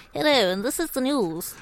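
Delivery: soft mock-RP newsreader; mock RP accent. Co-host imitating BBC newsreaders, mock RP accent. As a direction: put on a BBC RP news voice. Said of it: "I was some kind of alien when I used to watch things".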